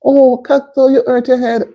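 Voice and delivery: high-pitched, cooing sympathy; sympathetic concern. Real, not acted. Sympathy for child's hurt head.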